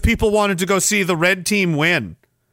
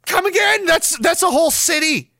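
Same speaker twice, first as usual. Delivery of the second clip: much higher, mock double take; incredulous; 8 semitones higher than usual. Real, not acted. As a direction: ask as if you misheard. Reacting to overcount.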